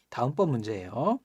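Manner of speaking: ordinary talk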